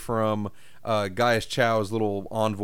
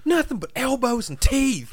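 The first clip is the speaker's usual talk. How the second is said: squeaky joke voice; 12 semitones higher than usual. Acted. Joking high voice.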